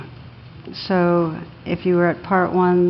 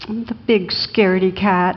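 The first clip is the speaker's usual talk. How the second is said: laughing. Real, not acted. Punchline told through laughter.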